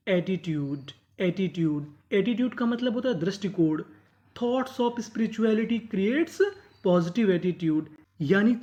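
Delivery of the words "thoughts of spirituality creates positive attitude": slow model reading. Shown as a demonstration. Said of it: "teacher reads model sentence slowly".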